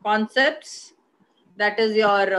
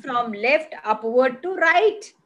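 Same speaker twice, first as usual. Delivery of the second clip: slow, deliberate model answer; slower than usual. Shown as a demonstration. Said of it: "simply say that it is".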